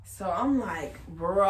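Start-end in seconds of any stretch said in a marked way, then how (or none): 1.1-1.5 loud, drawn-out exasperated shout; exasperated outburst. Retold or imitated. Girlfriend reacting to boyfriend's text that he got fired, exasperated shout. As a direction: yell it out long in disbelief.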